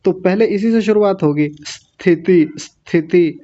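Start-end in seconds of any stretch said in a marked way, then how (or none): 1.6-3.4 स्थिति with a faint hissed स; light half s. Shown as a demonstration. Teacher models स्थिति for Priya. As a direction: start स्थिति with a light hiss. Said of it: "ऐसा करके".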